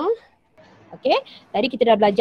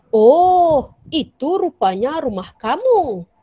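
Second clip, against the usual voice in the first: loud, high surprised "Oh!" then a puzzled rise; sudden realisation, amazed; hairan dan terkejut; 4 semitones higher, 5 dB louder, slower than usual. Shown as a demonstration. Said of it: "hairan ataupun terkejut". (hairan, "Oh" yang kuat dan tinggi)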